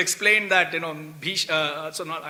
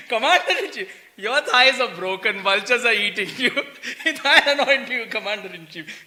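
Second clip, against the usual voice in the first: mock anointing. Mock pompous anointing, laughing.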